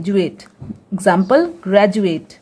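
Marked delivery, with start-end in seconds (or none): 0.0-0.4 ज्यूएट with a soft j sound for the D; DUATE read as joo-ate. Shown as a demonstration. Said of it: "इसे हम ज्यूएट पढ़ते हैं". (ज्यूएट में डी को ज बोलकर)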